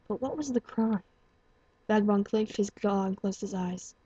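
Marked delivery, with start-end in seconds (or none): 0.1-1.0 hushed, breathy demand; whispered question. Acted. Doctor quietly presses the stranger about his crime, whispered. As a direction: lean in and whisper it.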